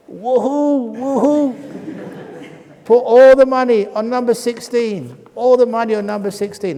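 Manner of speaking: high, loud whooping; wildly excited voice; gleeful cheer. Retold or imitated. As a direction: whoop like a winner on a streak. Voice celebrates wildly.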